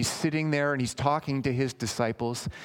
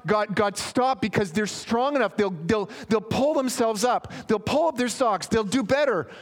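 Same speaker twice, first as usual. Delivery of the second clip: mock self-confident prayer; 9 semitones higher, 4 dB louder than usual. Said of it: "He doesn't say".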